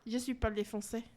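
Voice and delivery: softly tried French accent; a modest go at a French accent. Shown as a demonstration. Showing off a little French for friends, French accent. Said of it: "like, French accent".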